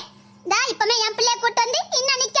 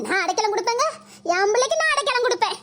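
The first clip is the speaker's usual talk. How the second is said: fake crying. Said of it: "நடிப்பு நடிக்காம".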